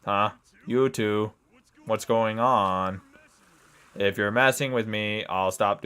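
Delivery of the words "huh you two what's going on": robot voice. Acted. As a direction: speak like a booming robot. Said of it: "I gotta do a robot voice".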